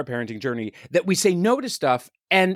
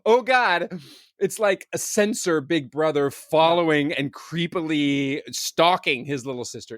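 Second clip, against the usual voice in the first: mock creepy narration; slower than usual. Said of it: "being like".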